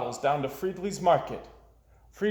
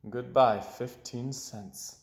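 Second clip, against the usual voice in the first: slow, much softer, sighing it away; mournful farewell; 2 semitones lower, 4 dB quieter, slower than usual. Acted. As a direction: let the coins go with a sad hush. Boy mourns money spent.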